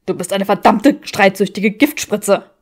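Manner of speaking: man hurling names at her; insulting Draco. Acted. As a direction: drag out the insult.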